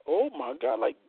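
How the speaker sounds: high fast disbelieving rant; mock-scolding the woman in a high, fast voice; incredulous. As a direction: shoot up high and rattle it off in disbelief. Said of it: "I'm like".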